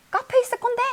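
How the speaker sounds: very high-pitched cry of realization; sudden exclamation. Acted. Ellen suddenly realizing where the gift is, high exclamation. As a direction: blurt it out high, acted sudden alarm. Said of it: "갑자기 탁 소리를 치는 거야".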